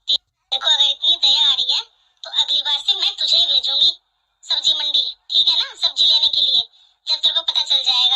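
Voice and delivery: put-on mother-in-law snapping at the young bride, angry and loud; scolding mother-in-law. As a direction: put her in her place, loudly.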